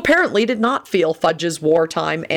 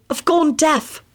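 lofty; 11 semitones higher, slower than usual. A narrator's reading. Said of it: "he informed Dumbledore loftily".

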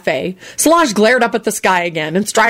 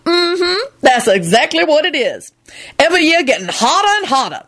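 ominous proclamation; 6 semitones higher than usual. A narrator's reading. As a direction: proclaim doom, slowing at the end. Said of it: "she proclaimed ominously".

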